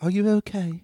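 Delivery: Squib. Acted. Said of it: "first person to come up is Squib".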